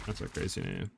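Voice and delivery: breathy whisper, under the breath. Shown as a demonstration. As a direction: whisper it to yourself. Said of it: "repeated softly".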